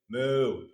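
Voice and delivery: a plain-voiced mock moo; one long cartoon cow's moo; imitated cow moo. Lecturer plays the cow answering the vet, imitated moo. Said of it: "And the cow goes".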